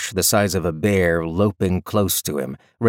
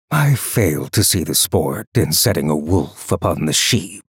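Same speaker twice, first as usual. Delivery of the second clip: cold, lower emperor voice; cold rasping evil emperor; 4 semitones lower than usual. Acted. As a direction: speak down with icy disdain. The Emperor speaking to captors.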